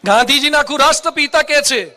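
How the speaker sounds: a ringing call out to the hall; proclaiming shout. Real, not acted. Preacher proclaims to the audience.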